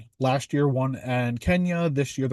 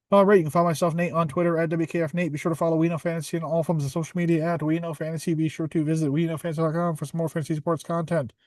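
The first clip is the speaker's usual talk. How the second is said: flat, even promo read at a raised pitch; robot voice; 3 semitones higher than usual. Real, not acted. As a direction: rattle off the plugs like a robot. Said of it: "I said that like a robot".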